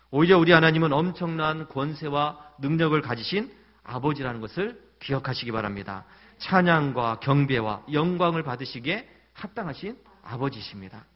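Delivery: loud, rising sermon proclamation; preaching at full force. Real, not acted. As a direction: proclaim it to the congregation. Preaching climax.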